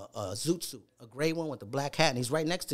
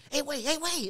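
retold calling out; 12 semitones higher, 3 dB quieter than usual. Wrestler to his helper at ringside, retold high-pitched call.

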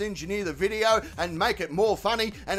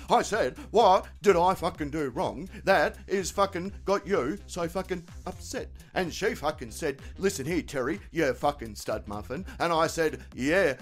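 lightly voiced mate, a bit lower; troubled mate Terry; 5 semitones lower than usual. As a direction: play the hapless mate retelling a tiff. Voices Terry retelling the argument.

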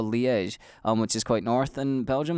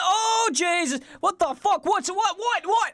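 much higher, half-laughing mock panic; retold panic; slower than usual. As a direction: replay the alarm-struck freakout. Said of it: "I'm like".

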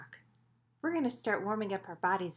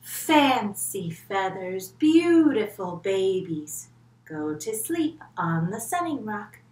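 slow, louder doting mother bird; proud mama bird; 9 dB louder, slower than usual. Acted. Mama bird lulling her babies to sleep, slow and loud. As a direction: croon proudly to the babies, drawn out. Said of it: "And she also says".

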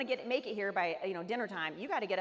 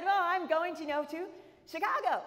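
mock sarcasm; 7 semitones higher than usual. Her sarcastic answer to obvious question.

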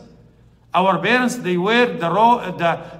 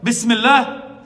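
raised, ringing Bismillah; son's last word; 4 semitones higher, 5 dB louder, slower than usual. Retold or imitated. Imam stressing the son's last word, raised. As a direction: proclaim it as he did. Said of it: "Her son said that".

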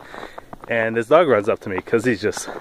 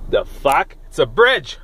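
high-pitched feigned alarm; mock shock; 6 semitones higher, 3 dB louder than usual. Driver pretending to spot a bridge, mock shock. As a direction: cry out in pretend disbelief, pitched up.

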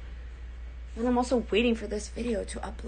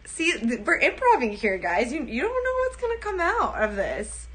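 ordinary talk

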